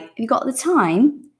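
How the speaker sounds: "Have you got the time?" run together fast, rising at the end; quick slurred question, rising on "time"; said very quickly. Shown as a demonstration. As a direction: rattle the question off in one breath. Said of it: "When you say it very quickly, it's like".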